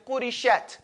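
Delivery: "qurishat" with the final t softly released; whispered final ta. Shown as a demonstration. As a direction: say "qurishat", letting the last sound out. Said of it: "you let it whisper".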